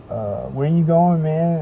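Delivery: lightly voiced sketchy stranger; mock street guy. Stranger follows him asking where he's going, pushy.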